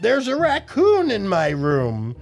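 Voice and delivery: high, loud call for Mum; yelled for help. A narrator's reading. Boy yelling for his mum about the raccoon. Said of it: "I yelled again loudly".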